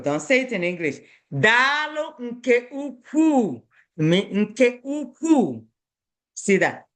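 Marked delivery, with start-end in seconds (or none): 1.3-5.6 Daalụ nke ukwuu said slowly, stress on ukwuu; slow Igbo thanks. Shown as a demonstration. Teacher models Igbo thanks for the pupils. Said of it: "say it in Igbo".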